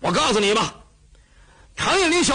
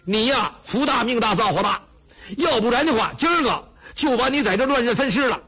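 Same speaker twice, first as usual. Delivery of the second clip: blustering exclaim; 3 semitones higher than usual. Acted. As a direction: bellow it out, full of bluster. Cheng exclaims, blustering loudly.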